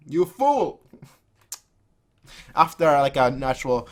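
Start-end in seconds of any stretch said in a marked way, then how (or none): 0.1-0.8 higher, louder scornful jab; contemptuous insult. Acted. Companion scorning Nagi in the quarrel. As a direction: spit the insult.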